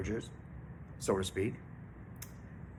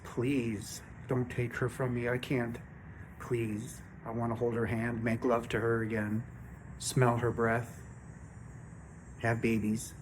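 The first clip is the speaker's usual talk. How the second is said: getting emotional; 4 dB quieter than usual. Real, not acted. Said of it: "I might even get emotional now".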